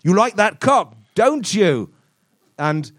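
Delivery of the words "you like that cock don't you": mock sexy line. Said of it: "saying something unambiguously sexual".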